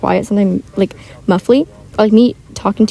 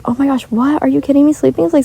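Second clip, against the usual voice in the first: higher-pitched imitation of an incredulous objector; mock disbelief; 4 semitones higher than usual. Teen voicing critics of an unpopular opinion, mock disbelief. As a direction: act out being mildly scandalised.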